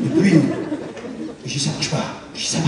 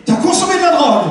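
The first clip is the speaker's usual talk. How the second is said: higher, incredulous accusing mother; mocking mother voice; 8 semitones higher than usual. Mother accusing her son of drugs, higher and incredulous. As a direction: throw it back, half laughing.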